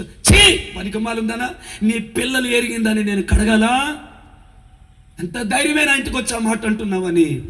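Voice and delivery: retold mocking insult; contemptuous scolding. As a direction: sneer at her like dirt. Mother-in-law insulting the mother.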